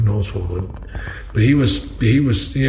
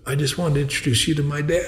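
laughing while quoting her; 5 semitones higher, 4 dB quieter than usual. Retold or imitated. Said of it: "she goes".

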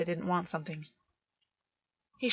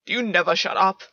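louder, fed-up snap; exasperated outburst; 8 dB louder than usual. A narrator's reading. Gwen snapping at the taunting August, exasperated. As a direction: shove the words out in annoyance. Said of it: "Gwen said".

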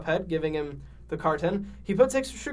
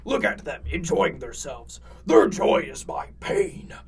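villainous devil voice; 5 dB louder than usual. Acted. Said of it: "said the devil angrily".

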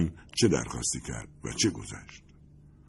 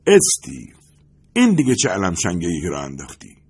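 a loud shout that starts on the name; 6 dB louder than usual. Acted. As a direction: call him out loudly, exasperated. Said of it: "فریاد برادلی بلند شد". (فریاد بلند)

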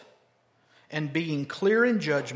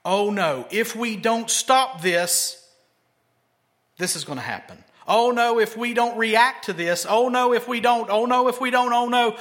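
hammed-up fearful alarm, louder; mock fearmongering; 3 semitones higher, 4 dB louder than usual. Preacher mimicking conservative talking heads, mock alarmed panic. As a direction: play a pundit spreading panic, over the top. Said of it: "so much in fear".

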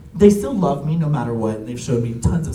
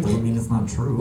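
lower, deadpan comeback; dry grandfather; 4 semitones lower than usual. Retold or imitated. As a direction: imitate an unmoved grandfather dropping the punchline. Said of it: "he's dry humor too".

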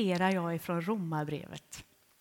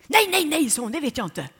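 Elsa's flustered denial; 6 semitones higher, 10 dB louder than usual. Retold or imitated.

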